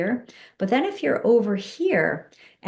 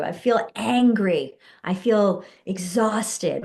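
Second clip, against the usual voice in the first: slow demo statements; slower than usual. Shown as a demonstration. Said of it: "Whatever comes up for you".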